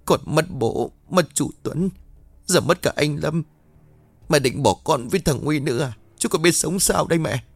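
rising, tearful plea to mother; emotional plea. Acted. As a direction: beg her not to leave, voice climbing. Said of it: "Nghe những lời chia sẻ đầy xúc động này".

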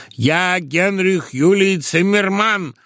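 slow, high mad declaration; crying out. A narrator's reading. Confused madman shouts his false name: slow, high. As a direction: proclaim it slowly and grandly. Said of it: "кричал".

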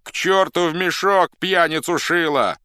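high, loud cursing; abusive crowd shouting. A narrator's reading. Crowd denounces a thieving candidate, shouting abuse. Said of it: "кричала с бранью толпа".

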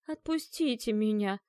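slow, pitiful plea; plaintive babble. A narrator's reading. Dead woman begging to be let go, plaintive babble. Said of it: "жалобно пролепетала покойница".

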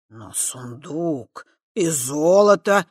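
put-on slow, weighty old elder. A narrator's reading. Elder Chernozub weighing gold against Kava, weighty. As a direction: lay out the deal with authority. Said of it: "веско произнёс Чернозуб".

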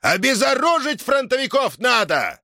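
high, urgent demand; straining shout. A narrator's reading. Sergei demands the soldiers be disarmed, shouting hard. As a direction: cry out, pushing the pitch up. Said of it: "надсажался криком Сергей Ильич".

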